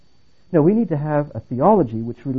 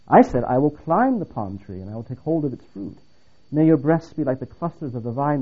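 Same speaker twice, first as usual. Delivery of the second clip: scripture reading; 4 dB louder than usual. Acted. Single man reads a startling Bible passage to listeners, declamatory scripture reading. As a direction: recite verse with measured, emphatic phrasing. Reads love poem aloud to audience.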